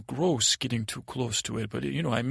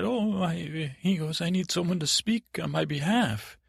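put-on higher, worried boy's voice; anxious plea; 6 semitones higher than usual. Accused boy needs someone to speak, pleading. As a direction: appeal with mild desperation.

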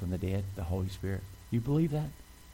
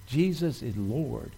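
leading a declaration; 3 semitones higher, slower than usual. Real, not acted. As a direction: draw out each word for the congregation to repeat. Models the confession for listeners.

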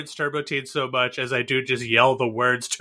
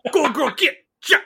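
whooping cowboy cheer; 8 semitones higher than usual. Pretend.

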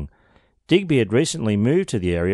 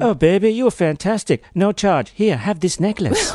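sultry sex worker; 9 semitones higher, 4 dB louder than usual. Pretend. Hosts act out a sex worker.

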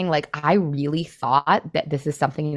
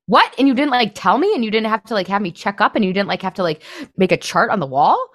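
high, loud, disbelieving questions; acted-out astonishment at someone's ease; incredulous; 6 semitones higher, 5 dB louder than usual. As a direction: pile up the questions in amazement. Amazed at husband's unaided resolution.

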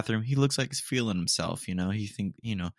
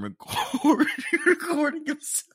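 high voice, words breaking into laughter; struggling to finish the sentence; laughing through it. Real, not acted. Retelling the TikTok to viewers, laughing too hard to talk. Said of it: "Don't know if I can get through this".

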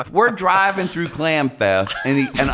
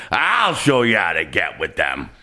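lower, hammed-up shouted boast; mock shout; 7 semitones lower than usual. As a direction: belt the promise out. Voicing the lady on the ferry.

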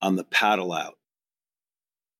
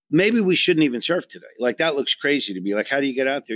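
nervous; 3 semitones higher than usual. Retold or imitated. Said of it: "I'm going out there thinking".

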